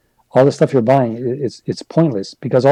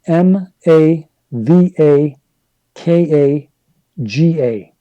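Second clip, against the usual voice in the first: spelling out slowly; 2 semitones higher, much slower than usual. Shown as a demonstration. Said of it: "if you wanna, uh, follow me on Twitter".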